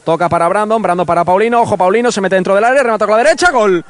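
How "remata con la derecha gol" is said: excited commentary. Real, not acted. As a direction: build toward the goal call. Build-up to the goal.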